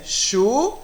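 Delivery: "chu" drawn out slowly as one syllable; syllable demonstration. Shown as a demonstration. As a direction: stretch "chu" out as a single sound. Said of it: "Eles vêm em dois grupos".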